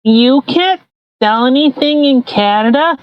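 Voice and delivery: put-on whiny kid demanding candy; childish Trudeau voice. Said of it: "the more you're talking".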